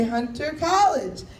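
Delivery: "Hunter College" said the proper way, slow and even; correct pronunciation. Shown as a demonstration. Comic corrects the subway announcer's pronunciation, slow and deliberate. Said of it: "You say".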